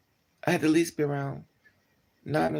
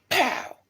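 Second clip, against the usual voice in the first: mock slap sound; 11 semitones higher, 3 dB louder than usual. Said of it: "He said".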